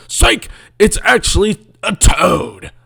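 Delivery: spring the surprise like a gotcha; mock surprise reveal.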